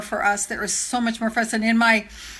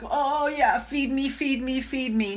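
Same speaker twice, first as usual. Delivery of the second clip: put-on baby bird voice; 2 semitones higher, 4 dB quieter than usual. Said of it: "like a baby bird, going like".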